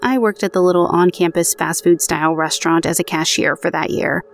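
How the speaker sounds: even, measured podcast read of a true ghost story; narrating an eerie personal account; story narration. A narrator's reading. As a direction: read the listener's account aloud, steady and clear. Reads out next listener's story.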